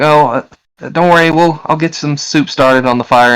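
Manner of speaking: high woman's voice, reassuring; reassuring mother. Acted. Mother promising soup to sick kid, high reassuring voice. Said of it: "And she's like".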